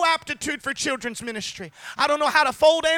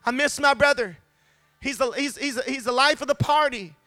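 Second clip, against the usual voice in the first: anguished plea. Retold or imitated. Grieving sister's words voiced.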